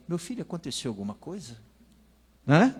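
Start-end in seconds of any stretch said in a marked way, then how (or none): 0.1-1.6 soft, quick, concerned question; gentle mother. Pretend. Maria asks her lost son gently, softly. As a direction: ask like a calm worried mother. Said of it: "Um andar menos de serenidade seria".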